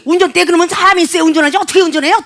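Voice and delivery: high, rapid, indignant retort; imitated scolding. Mover scolding customers about the driver, mock indignation.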